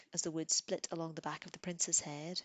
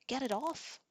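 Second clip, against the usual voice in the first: screaming; 8 semitones higher than usual. A narrator's reading. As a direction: scream in pain and panic. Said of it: "he screamed".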